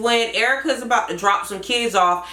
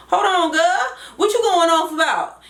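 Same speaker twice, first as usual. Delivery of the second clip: lighter southern voice, a bit higher; Trina; 5 semitones higher than usual. Shown as a demonstration. Creator demoing Trina's voice for viewers, light southern. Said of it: "That's how Trina sound to me. Like".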